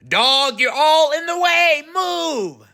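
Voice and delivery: high shouting man; yelling. Acted. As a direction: yell it at the dog. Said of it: "The man yelled at the dog".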